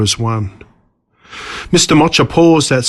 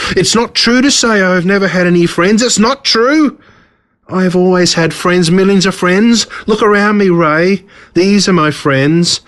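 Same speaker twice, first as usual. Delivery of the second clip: higher, self-pitying boast; gloating villain; 6 semitones higher than usual. Acted. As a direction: insist on his friends with wounded pride. Villain boasts of his ants.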